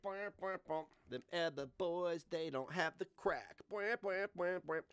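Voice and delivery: slow mock crooning of a song with bwah beats; lightly voiced Negs, half-sung and slowed; a hint of Negs singing; Negs impression. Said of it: "We need to do Negs impressions now".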